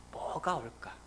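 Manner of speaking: breathy hushed wondering; whisper. Acted. Believer staring at the sky, whispering. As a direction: whisper it as if peeking upward. Waiting for God, looking up.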